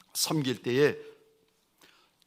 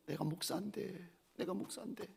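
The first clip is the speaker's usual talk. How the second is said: much softer, murmured to oneself; ashamed murmur; 3 semitones higher, 15 dB quieter than usual. Retold or imitated. Ashamed pastor murmuring to himself. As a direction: mutter it in shame.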